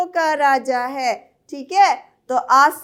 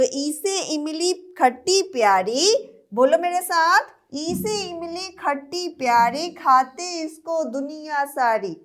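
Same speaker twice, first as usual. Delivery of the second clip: sing-song nursery rhyme; poem recital. Acted. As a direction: recite the rhyme for small kids. Recites with class. (बच्चों के लिए लय में कविता)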